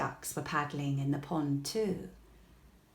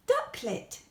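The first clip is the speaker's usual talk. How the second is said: questioning guess. A narrator's reading. Kipper's wrong guess.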